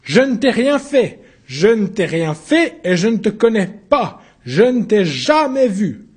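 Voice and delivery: high, loud protest, slowing at the end; shouted denial. Acted. Accused denying he knows the newcomer, loud high shout. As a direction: fling the denial at him.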